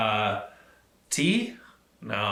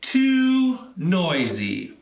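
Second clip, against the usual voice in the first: put-on fed-up old man; 4 semitones higher, 4 dB louder, slower than usual. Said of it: "said Peter".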